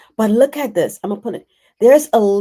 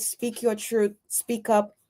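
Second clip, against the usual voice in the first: "your" gently stressed, much softer; soft encouragement; 5 dB quieter than usual. Shown as a demonstration. Urging Donna not to be afraid, softly. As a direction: coax it quietly. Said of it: "So don't be afraid".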